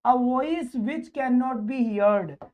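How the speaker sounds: very slow, word by word reading; deliberate teacher dictation pace. Shown as a demonstration. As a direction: spell the question out slowly for the class. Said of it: "reads next question".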